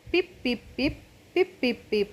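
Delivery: squeaky little pips, mouse style; mouse squeak voice. Acted. Mouse replying to the puppy with squeaky pips. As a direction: play the mouse peeping its answer. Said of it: "ഒരു എലി നിൽക്കുന്നു".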